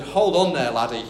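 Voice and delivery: light mock Scottish accent on laddie; a hint of Scottish for the fiancée. Fiancée stops him at the airport, mock Scottish. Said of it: "That's Scottish, not American".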